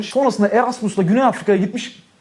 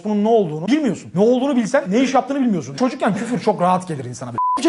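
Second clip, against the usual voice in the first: ordinary talk, nothing marked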